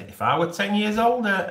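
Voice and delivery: retold cheeky line. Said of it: "I said".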